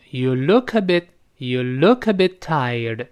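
"look a bit" run together as one sound; linked words. Shown as a demonstration. Teacher shows how "look a bit" joins up, linked. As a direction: link the k of "look" into "a" in "you look a bit tired". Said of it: "那个look跟a bit自然连成".

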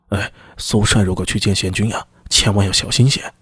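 low-pitched, guarded warning; a hint of an underling's discreet caution; lightly voiced wary messenger. Messenger warning his superior before he sees the magistrate, lightly voiced and wary.

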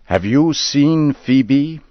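lightly voiced old Henry asking after his wife; anxious old man. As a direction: lean in, hoping for news.

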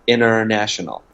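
"international" said as "inner-national" with no T; dropped T. Shown as a demonstration. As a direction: drop the T in "international". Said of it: "美式的发音不喜欢发".

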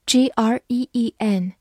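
"green" with a long ee vowel. Shown as a demonstration. Teacher contrasts similar words for learners, "green" with long ee. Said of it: "E字母组合发长音E".

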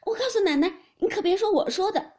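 high, loud frightened plea; tearful pleading. A narrator's reading. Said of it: "一行哭求道". (哭着高声求饶)

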